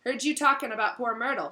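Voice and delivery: gleeful troublemaker taunting; sly poltergeist. Acted. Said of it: "his eyes dancing".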